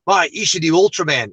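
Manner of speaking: lightly imitated Australian mate; light Australian accent. Friend urging him over coffee, light Australian accent. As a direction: put on a touch of Australian. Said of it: "I won't keep going with the Australian accent".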